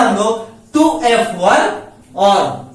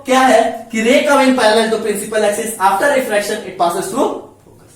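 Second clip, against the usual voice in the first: slow dictation; 2 semitones lower, slower than usual. Shown as a demonstration. Teacher repeats rule slowly.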